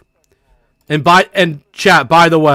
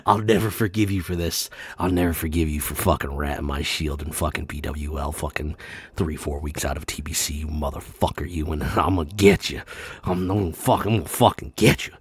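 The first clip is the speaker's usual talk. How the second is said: very low, quiet, seething threat; hushed low revenge monologue; menacing vow; 11 dB quieter, faster than usual. Acted. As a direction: growl it low under your breath. Acts out an aggrieved player's threat.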